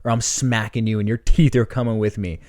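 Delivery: half-serious rant that swells at the finish; retold swearing threat. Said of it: "I'm, like, swearing at the guy".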